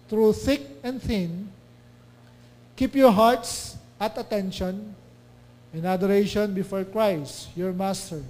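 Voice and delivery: slow, measured Bible reading; scripture reading. Acted. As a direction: read the verse slowly and solemnly. Reads scripture slowly. (mabagal at taimtim na pagbasa ng talata)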